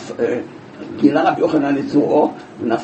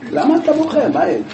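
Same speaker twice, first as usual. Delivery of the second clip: high, astonished question; 9 semitones higher than usual. Acted. Rabbi Yochanan asks why he cries.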